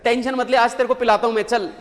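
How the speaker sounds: a matey pat on the back, low and offhand; hint of a worker inviting his neighbour for a drink; buddy consoling a mate. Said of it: "अपने जो पड़ोसी है उसके साथ में".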